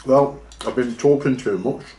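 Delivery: talking with a mouthful of food; words around a bite of food; mouth full. Real, not acted. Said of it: "Excuse me, I shouldn't talk with my mouth full".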